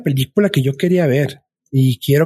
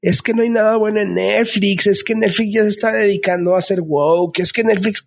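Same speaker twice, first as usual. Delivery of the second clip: higher, whiny mock complaint; mocking complainers; 5 semitones higher than usual. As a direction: mimic a griping viewer, pitched up. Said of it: "de esos que luego dice la raza".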